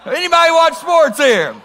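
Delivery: high, loud appeal to the whole room; incredulous calling out. Real, not acted. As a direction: call out in disbelief for a show of hands. Asks again after getting one hand.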